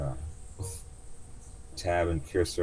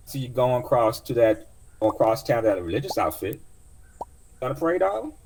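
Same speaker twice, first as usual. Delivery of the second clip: put-on much higher, sweet old auntie greeting; old cab driver; 7 semitones higher, 5 dB louder than usual. Taxi driver greeting her young passenger, high doting voice. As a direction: coo a welcome like a kindly old driver.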